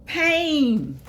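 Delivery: high, loud drawn-out whoa, then slow emphasis; hammed-up wail about aches, stretching the words; acted exclamation. Imagining life at eighty-three and its pain, acted exclamation. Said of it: "you're gonna be like".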